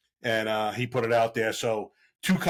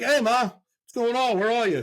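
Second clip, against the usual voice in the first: sweet innocent ask; 11 semitones higher, 4 dB louder than usual. Retold or imitated. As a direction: play dumb to catch her out. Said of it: "I'm like".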